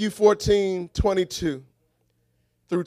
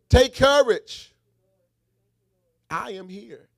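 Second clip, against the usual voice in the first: reassuring; 2 semitones higher than usual. Shown as a demonstration. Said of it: "say it one more time".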